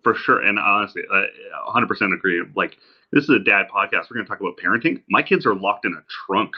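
distant laptop mic sound; like it's recorded from the next room; from another room. Real, not acted. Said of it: "me sounding like I'm talking from the other room".

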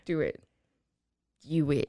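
low, soft attempt at British, veering Scottish; badly faked Scottish-sounding accent. Host goading co-host into British accent, low mock-Scottish. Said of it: "It's more Scottish".

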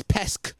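pesc ending on a crisp k sound; final k in pesc. Shown as a demonstration. Podcaster correcting the mistaken word, pesc with a final k. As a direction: say pesc with a k at the end, not a t. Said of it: "that's just my, my accent".

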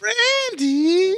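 loud high call of a name; shouting a name. Acted. Calling out name.

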